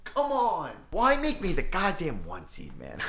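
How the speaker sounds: high, drawn-out whine of defeat; anguished whine. Real, not acted. Gamer losing the conference finals, anguished whine. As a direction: plead with the game, pitch up and stretched.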